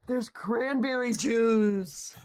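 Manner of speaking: excited. Real, not acted. Excited find in game.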